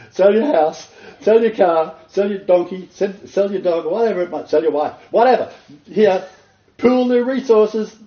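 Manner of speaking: high, loud, laughing mock demands; mocking greedy pastor. Preacher mocking a church leader demanding members' goods, loud. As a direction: lampoon the grabby preacher.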